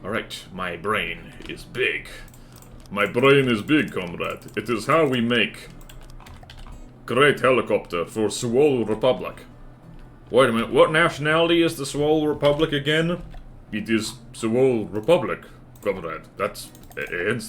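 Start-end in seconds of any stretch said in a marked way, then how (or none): 0.0-9.4 lightly put-on Soviet-style comrade accent; mock comrade accent. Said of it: "what accent are we using?". 13.7-16.2 lightly put-on Soviet-style comrade accent; mock comrade accent. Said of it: "what accent are we using?".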